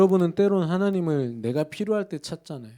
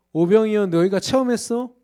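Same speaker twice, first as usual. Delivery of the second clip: louder, higher rebuking challenge; raised voice of Jesus challenging; 6 semitones higher, 7 dB louder than usual. Acted. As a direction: call them out like a master testing disciples. Voicing Jesus rebuking disciples.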